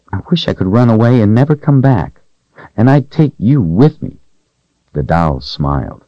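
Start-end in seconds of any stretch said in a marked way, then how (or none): 0.1-4.2 put-on higher, wistful little girl; a frightened young servant girl, hushed and hoping. Voices young Rachel in story.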